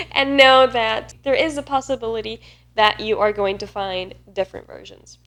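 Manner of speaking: ordinary talk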